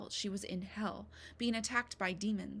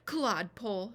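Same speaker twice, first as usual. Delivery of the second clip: louder scolding cry; screamed insult; 5 dB louder than usual. Acted. Midwife screams at Beetle in the corner, loud insult. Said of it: "she screamed".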